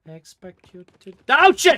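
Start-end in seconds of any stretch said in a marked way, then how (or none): 1.3-1.8 sudden high, loud yelp of surprise; shocked gamer swear; startled outburst. Real, not acted. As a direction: caught off guard, blurt it out.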